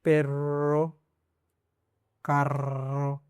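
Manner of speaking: पेरो and कारो said with the r unrolled; wrong way. Shown as a demonstration. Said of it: "ऐसे नहीं". (गलत तरीका, र बिना घुमाए)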